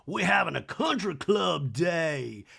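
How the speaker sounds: slow drawn-out Southern socialite; slow, hammed-up socialite impression; Sutton. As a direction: stretch it out like a country club lady. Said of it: "She's like".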